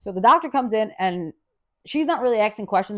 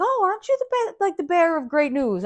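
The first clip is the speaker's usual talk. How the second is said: mock sarcastic old lady; 9 semitones higher than usual. Roommate's sarcastic reply.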